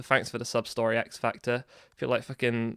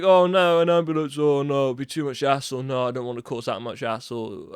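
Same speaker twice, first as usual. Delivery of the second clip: imitating. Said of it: "this guy was like".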